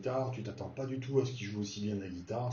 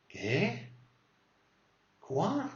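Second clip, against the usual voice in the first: Quoi jumps very high; sharp high shocked what; shocked surprise; 7 semitones higher than usual. Shown as a demonstration. Friend hears shocking news, very high shocked. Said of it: "t'es surpris là".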